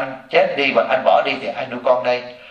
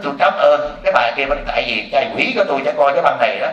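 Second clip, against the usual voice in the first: laughing thanks. Retold or imitated. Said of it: "Ổng nói".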